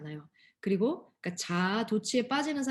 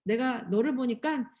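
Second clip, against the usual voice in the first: giving up on you; 3 semitones higher than usual. Pretend. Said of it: "이렇게 절대로 포기하지 않으세요".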